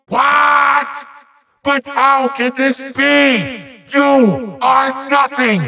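high-pitched indignant ranting; outraged disbelief. Acted. Villain cannot believe the hero survived, high outraged rant. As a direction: spit out each insult in theatrical outrage.

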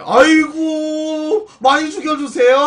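high, loud, drawn-out squeal of thanks; delighted gushing. Real, not acted. Streamer welcoming donor's promise to kill it, gushing.

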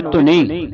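ਧੁਨੀ with a clear dental n. Shown as a demonstration. Teacher models for student, ਧੁਨੀ with dental n. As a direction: put the tongue on the teeth for n in ਧੁਨੀ. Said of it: "ਨੰਨੇ ਦੀ ਆਵਾਜ਼ ਉਚਾਰਨ ਹੋਵੇ".

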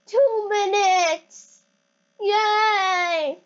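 high, drawn-out cheering; excited cheer. Real, not acted. Cheering the game countdown.

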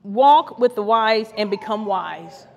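slow scripture read; slow reverent scripture reading. Real, not acted. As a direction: read it slowly, weighing each word. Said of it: "I like this scripture".

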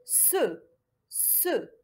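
"Se" with an s into French e; syllable demonstration. Shown as a demonstration. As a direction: model "Se" as one syllable. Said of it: "Comment je prononce la syllabe?".

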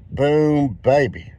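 excited boom. Real, not acted. Winning ticket celebration.

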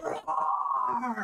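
mock roar. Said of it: "Sounds like a lion".

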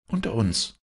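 high-pitched echo of the husband; indignant woman's retort; retorting wife. A narrator's reading. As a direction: throw the words back in a high voice. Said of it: "erwiderte die Frau".

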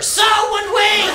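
high, shouted comeback; exasperated yell. Real, not acted. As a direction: snap it back with a shout. Yelling answer to customer.

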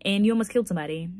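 lightly imitating an Irishman's accent; imitated Irish accent. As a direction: quote him with a touch of Irish accent. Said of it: "so he said in his accent".

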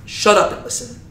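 hushed, breathy stern command; whispered stern order. Retold or imitated. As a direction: shush them like Moses, firmly. Moses silencing the frightened people.

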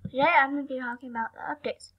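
talking while chewing gum; words round a wad of gum. Real, not acted. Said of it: "I'm chewing gum".

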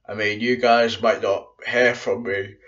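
stifling a yawn; about to yawn. Real, not acted. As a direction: yawn creeping into the words. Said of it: "about to yawn then".

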